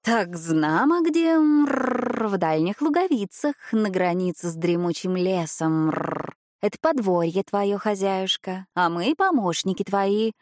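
rolled throaty r like a Frenchman; cat speaking with French-style r and purrs. Acted. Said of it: "грассируя на французский манер". (грассирующее французское «р»)

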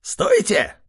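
high cry to halt them; shouted stop. Acted. Artyom's pig shouts to halt the attack. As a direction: yell to stop the fight. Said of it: "выкрикнул один из свинов".

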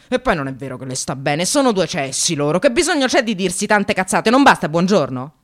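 rant, building to the last question; growing irritation. Real, not acted. Ranting to the audience about her colleagues, building irritation. Rant against fake compliments.

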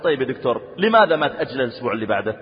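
polite student. Retold or imitated. Student politely asks the professor, soft and courteous. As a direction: ask the teacher gently, with respect. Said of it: "بكل أدب قال".

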